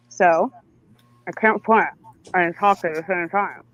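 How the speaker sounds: words round a phone in mouth; phone held in teeth. Real, not acted. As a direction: talk with a phone bitten. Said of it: "put this in my mouth".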